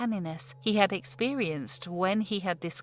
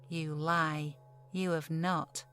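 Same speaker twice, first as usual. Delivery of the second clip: calm, soft and a bit lower; mild; 4 semitones lower, 3 dB quieter, slower than usual. Acted. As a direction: gently call out the lie. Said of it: "Robin then said mildly".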